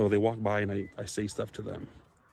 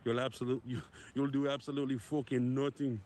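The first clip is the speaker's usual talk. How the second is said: put-on Conor McGregor accent; 2 semitones higher, 6 dB quieter than usual. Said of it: "did I do that Conor McGregor accent pretty good".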